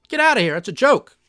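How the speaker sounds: high, incredulous scoff; scoffing dismissal. Real, not acted. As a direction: brush the idea off, half laughing. Scoffing at rate hike idea.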